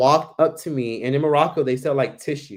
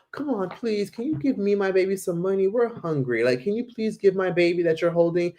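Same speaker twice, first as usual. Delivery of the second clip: begging mother; 6 semitones higher than usual. Retold or imitated. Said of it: "she's like".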